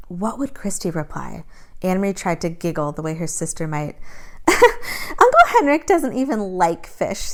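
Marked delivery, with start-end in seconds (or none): 4.5-7.3 put-on high, slow, laughing girlish line. A narrator's reading. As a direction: giggle it like a silly little girl. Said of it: "she said, laughing".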